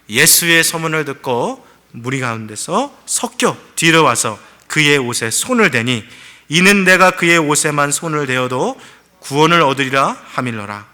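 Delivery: slow, measured reading aloud; a pastor leading a scripture reading. Shown as a demonstration. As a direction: read the verse together, deliberately. Congregation reads scripture aloud.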